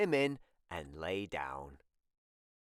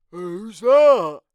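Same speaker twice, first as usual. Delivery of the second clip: high, light character voice; Norman voice; 8 semitones higher, 15 dB louder than usual. Acted. Norman agreeing to the sleepover, high and bright. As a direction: lift into a small creature's voice.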